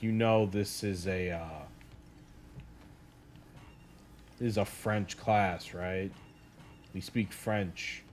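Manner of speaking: imitating a let-down teacher, low and quiet; soft, halting letdown with the pep gone; saddened, dropped act. French teacher to lost student in English, quietly saddened. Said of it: "faded into sadness. And he dropped the act".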